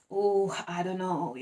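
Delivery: slow, unsure oh I don't know; a mild mock hesitation; hesitant brush-off. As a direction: drag it out reluctantly. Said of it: "you're just kinda like".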